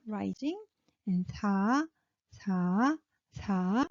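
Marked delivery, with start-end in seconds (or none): 1.3-3.9 사 said low and soft. Shown as a demonstration. Teacher models relaxed 사 before tense 싸. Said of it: "low and soft".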